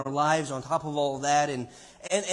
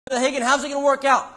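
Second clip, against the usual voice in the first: lightly voiced doubter, high and fast; mock questioner; 9 semitones higher, 7 dB louder, faster than usual. Preacher voicing a listener asking Brother Hagin, insistent mock question. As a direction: pitch it up as a loud, hurried challenge.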